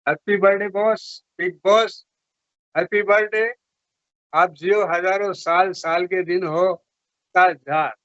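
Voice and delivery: high, measured birthday salute; Amitabh Bachchan. Shown as a demonstration. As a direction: deliver each wish like a film dialogue. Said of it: "Bachchan साहब की तरह आप कोई dialogue बोले".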